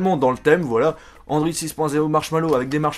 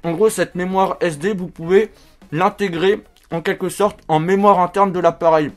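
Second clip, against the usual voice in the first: talking with a marshmallow in mouth; cheeks stuffed full. Real, not acted. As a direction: speak around a mouthful. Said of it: "Troisième marshmallow".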